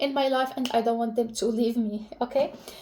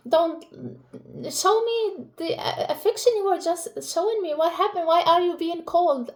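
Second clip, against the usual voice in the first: lightly voiced upset baby, higher pitched; mildly hurt, higher-pitched imagined baby voice; pleading baby; 4 semitones higher than usual. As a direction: plead a little, as the baby asking for affection. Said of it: "like, he's like".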